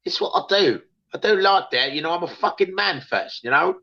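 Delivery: mock London geezer voice in Cockney; Cockney accent. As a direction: play a tough Cockney geezer threatening a stranger. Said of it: "With a Cockney accent".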